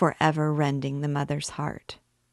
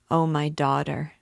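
moaning. Acted. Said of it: "she moaned".

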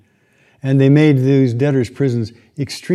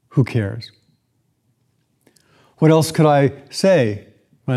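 lightly voiced Scrooge rant. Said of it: "Scrooge's response was".

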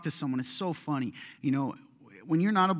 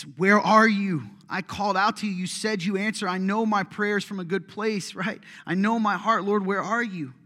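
anguished plea; 4 semitones higher, 5 dB louder than usual. Pretend. Believer calling to God who seems absent, anguished plea. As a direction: call up to a silent heaven.

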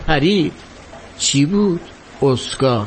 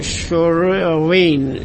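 "شروین" drawn out slowly with a swallowed American r; botched American pronunciation; 3 semitones lower, much slower than usual. Retold or imitated. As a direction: struggle through "شروین" as "Shrr-win", very slowly. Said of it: "گفت تلفظ درستشو بلد نیستم".

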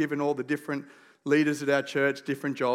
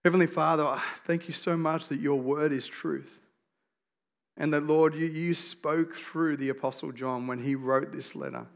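prayer; 3 semitones lower than usual. Real, not acted. Pastor praying before preaching his message, prayer. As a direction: pray sincerely with unhurried pauses.

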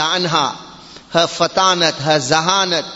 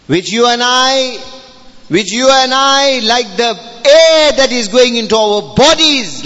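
higher, insistent sermon delivery; urgent preaching; 4 semitones higher, 4 dB louder than usual. Real, not acted. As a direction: press the need upon the congregation.

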